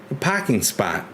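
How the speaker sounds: put-on Boston accent. Streamer retries the parking spot line, Boston accent. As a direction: drop into an imitated Boston accent. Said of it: "my Boston accent".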